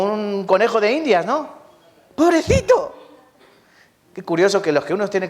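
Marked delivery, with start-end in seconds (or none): 2.2-3.0 high, squeaky "poor little thing"; mock pity. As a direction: coo over the cuy with fake sorrow. Mock pity for the guinea pig.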